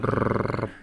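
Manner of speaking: lips rolled drum roll. Shown as a demonstration. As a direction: cheap mouth drum roll. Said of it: "Das war ein Trommelwirbel".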